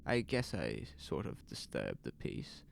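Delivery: nervous storekeeper talking himself calm; anxious shopkeeper. Acted.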